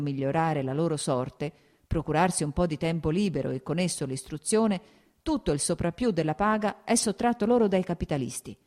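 arringa politica con enfasi crescente; Nikolai, oratore infervorato. Acted. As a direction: accalorati fino a chiudere forte e acuto. (arringa accalorata)

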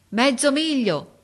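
high, loud, drawn-out reply; calling back. A narrator's reading. Boy answers from the treetop, calling. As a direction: stretch it out to carry far.

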